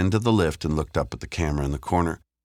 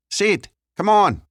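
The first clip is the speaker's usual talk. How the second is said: loud, high-pitched street lad; Leon, pleading; 7 dB louder, slower than usual. Acted. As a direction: coax him slowly in a high, raised voice. Figure in narrated story.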